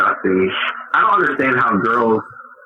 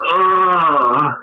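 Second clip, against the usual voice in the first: higher, drawn-out mock groan; imitated groan; 6 semitones higher than usual. Comic showing the groan he enjoys doing afterwards, mock groan. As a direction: groan it with relish. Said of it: "I really do enjoy going".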